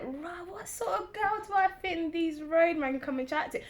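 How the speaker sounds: high south London roadman voice. Retold or imitated. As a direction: put on a roadman accent. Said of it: "that roadman voice".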